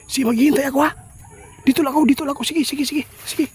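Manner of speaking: excited shouting. Real, not acted. Excited talk to game character.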